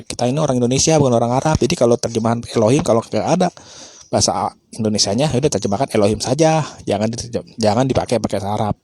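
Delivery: a hint of sneering imitation; mocking the opponent. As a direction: put on a preachy opponent's tone, half-joking. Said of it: "Pasti umat si Mikana bilang".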